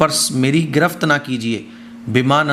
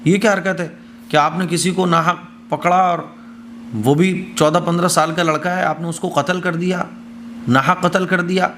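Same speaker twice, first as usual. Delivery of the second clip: indignant retold protest, pitched up a little; mildly outraged, as if confronting a wrongdoer; angry protest; 4 semitones higher than usual. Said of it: "موسیٰ علیہ السلام کو غصہ آ گیا". (ہلکے غصے میں احتجاج)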